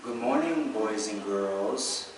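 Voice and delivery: slow, drawn-out classroom greeting; lightly voiced teacher, stretching the last words; fifth grade teacher. Teacher greeting the class every morning, slow and drawn-out. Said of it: "My fifth grade teacher".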